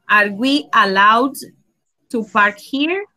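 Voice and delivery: careful, rising question; teacher confirming the class answer; slow model question. Shown as a demonstration. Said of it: "Very good".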